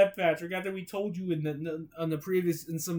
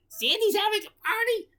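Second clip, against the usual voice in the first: cheering; 4 dB louder than usual. Acted. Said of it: "SpongeBob cheered".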